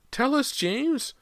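very high, drawn-out scream of a plea; terrified shriek. A narrator's reading. Mother begs unseen son to speak, terrified shriek. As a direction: shriek it slowly in terror. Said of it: "shrieked in a terrified voice".

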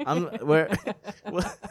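high-pitched giggling through words; laughing. Real, not acted. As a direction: crack up mid-word. Cracking up at own joke.

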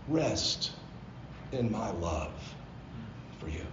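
a loving father reassuring his son, gently; gentle voice of the Lord. Retold or imitated. The Lord speaking gently to Mark at the altar, tender. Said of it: "the Lord very gently said".

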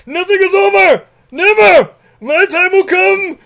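high, loud full-throated villain scream; Nikolai. Retold or imitated. Thwarted villain raging on his plane, hammed-up screaming. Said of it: "he starts screaming".

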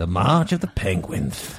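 slow, deep narrator drawl; Morgan Freeman voice. Retold or imitated. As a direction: narrate slowly like a nature film. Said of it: "Lispy Morgan Freeman?".

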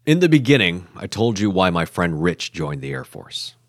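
scripted documentary narration; voice-over narration. A narrator's reading. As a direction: narrate to listeners in measured phrases.

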